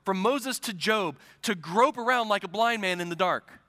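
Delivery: driving, rhythmic list from the pulpit; insistent preaching. Real, not acted. Preacher warning his church how sin blinds, insistent. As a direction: hammer each repeated phrase home.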